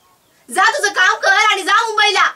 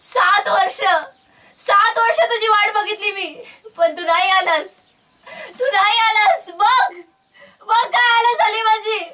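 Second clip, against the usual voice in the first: mother tells son she waited years, tearful and breaking; crying reproach; 2 semitones higher than usual. Acted. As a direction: voice breaking as she says he never came.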